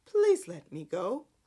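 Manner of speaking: play-acted, imploring, pleading delivery. Retelling a scene, imitating Jordan's pleading delivery. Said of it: "she literally said it like that".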